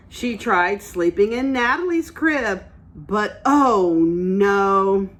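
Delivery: picture book read-aloud; reading to children. Acted. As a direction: read it like story time for little ones. Teacher reads picture book aloud.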